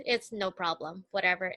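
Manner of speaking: low-key, lightly voiced shrug-off; unbothered dismissal. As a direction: brush it off, no fuss. Grandma brushes off the injury.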